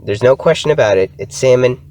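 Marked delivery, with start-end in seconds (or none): 1.2-1.8 higher-pitched, insistent "salmon" as SAM-un; firm correction, "salmon" without an L; silent L in salmon. Shown as a demonstration. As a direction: leave out the L in "salmon". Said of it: "Please pronounce it as salmon".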